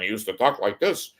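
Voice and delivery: hint of a New York Catskills comic's accent; Jackie Mason. Telling how the comedian talked, in his New York accent.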